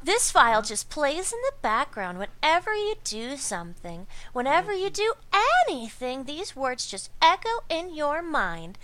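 a hint of a breathy ditzy hypnotist; bimbo voice. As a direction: coo it like a sweet airhead hypnotist. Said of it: "I'm totally doing a bimbo voice".

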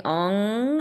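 very nasal spaceship hum; nasal Ong. Shown as a demonstration. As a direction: push Ong through the nose. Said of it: "you're really making that nasal sound".

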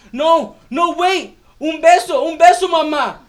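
put-on high, loud, desperate little boy begging for a kiss; pleading child. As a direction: cry out like a boy who won't let go. Child clinging to leaving mother.

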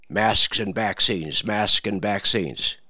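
slow, sing-song two-note chant; slow mocking rooster refrain; two-note rooster crow. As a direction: crow it like a one-trick rooster. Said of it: "two-note crowing rooster".

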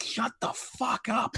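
imitating telling someone off; mock-angry retort to a complaining stranger; retold snap. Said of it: "I was just like".

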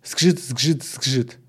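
chanted skate-scrape rhythm; measured onomatopoeic repeats; rhythmic grating. A narrator's reading. Narrator imitates skates' rhythmic grating.

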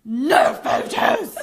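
very slow, drawn-out refusal; stern PR person. Retold or imitated. PR blocks fans from the star, drawn-out mock order. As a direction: stretch both words into a mock official ban.

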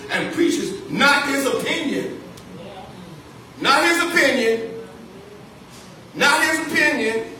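preacher hammering home "Not his opinion"; rising emphasis. Shown as a demonstration. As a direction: build the repeat up. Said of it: "repeated for emphasis".

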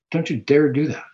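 mild parental warning; a loving dad saying stop; scolding father. Retold or imitated. Christ warning his child off sin, mild scolding. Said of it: "He's a scolding, loving father".

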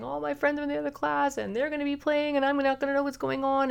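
put-on upset child voice. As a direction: play the child left out of the friend group. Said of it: "and they're saying".

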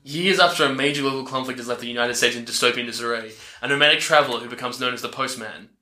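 fast trailer narrator voice; movie trailer read. Acted. Host reading the tagline aloud, trailer style.

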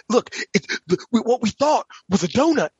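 put-on a playful take on a movie detective's Southern accent. Fan quoting the donut speech from Knives Out, light Southern accent. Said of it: "such a better Southern accent".

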